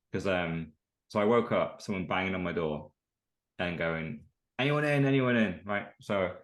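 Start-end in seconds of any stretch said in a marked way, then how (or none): 4.6-5.6 raised-pitch mock doorstep call; imitated calling out. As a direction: call out lightly, imitating a caller at the door. Man calling at the door.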